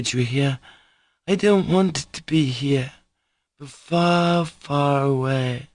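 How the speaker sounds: longing to run far away; earnest Grushenka. Acted. Grushenka begging Mitya to take her far away.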